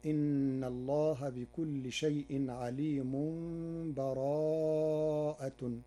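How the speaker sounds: عليم flows straight into براءة, slowly; joined without a breath. Shown as a demonstration. Teacher shows the second way, joining the two suras. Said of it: "بدون تنفس هكذا".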